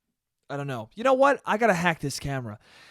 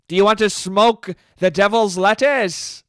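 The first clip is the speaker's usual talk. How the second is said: mocking; 5 semitones higher, 8 dB louder than usual. Joke punchline, absurd phrasing.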